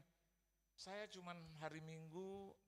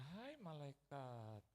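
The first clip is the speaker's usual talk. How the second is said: fond greeting; slower than usual. Retold or imitated. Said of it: "Saya dipanggil malaikat".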